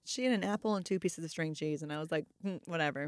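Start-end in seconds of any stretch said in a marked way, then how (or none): 2.4-3.1 very soft, low dismissal; retold resigned shrug. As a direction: let it go under your breath. Mother gives up, retold.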